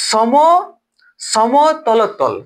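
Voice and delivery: সমতলতল spoken very slowly, each syllable separate; drawn out. Shown as a demonstration. Teacher sounding out a hard term for students, very slow. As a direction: stretch সমতলতল out carefully. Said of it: "উচ্চারণে হচ্ছে না".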